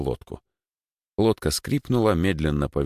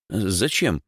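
mildly surprised, higher question; 4 semitones higher than usual. Acted. Boy is told to swap seats, surprised. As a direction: ask it with slight surprise. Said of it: "удивился Димыч".

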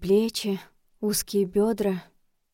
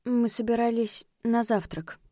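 suddenly hoarse; 2 semitones higher than usual. Acted. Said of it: "внезапно охрипшим голосом".

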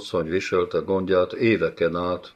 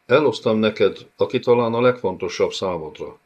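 calling out to the captives, a little louder; a bey's proud announcement, raised voice; shouting to the prisoners; 3 semitones higher, 4 dB louder than usual. Acted. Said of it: "kiáltotta".

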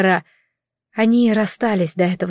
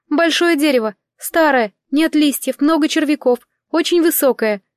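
высокий тонкий птичий голосок; щебечи как маленькая птаха, чуть выше; 6 semitones higher than usual. Acted. Птица описывает дерево. (птица отвечает героине, высоким тонким голоском)

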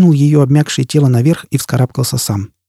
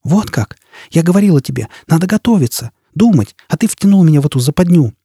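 higher-pitched, accusing character voice; indignant woman's reproach; 4 semitones higher than usual. Acted. Jisbella blames Foyle for the trap, indignant reproach. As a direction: throw the blame back at him, heated.

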